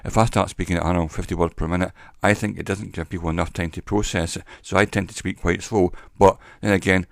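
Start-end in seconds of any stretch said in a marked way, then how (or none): 0.0-1.9 sped-up demonstration of speech rate; fast, running words together; brisk speaking rate. Shown as a demonstration. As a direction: rattle it along quickly. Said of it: "the best rate to speak at".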